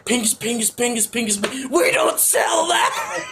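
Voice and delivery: jolly italian pizza chef. Retold or imitated. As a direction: yell it like an angry pizza cook. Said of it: "And they're like".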